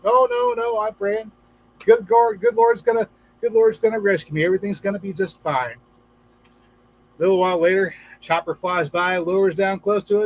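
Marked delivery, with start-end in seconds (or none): 0.0-5.8 stubborn man refusing. Retold or imitated. Stubborn praying man refuses rescue.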